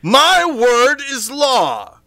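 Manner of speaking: booming, slow, high declaration; grandiose Dungeon Master. Pretend. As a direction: proclaim it like an all-powerful ruler. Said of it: "And I say".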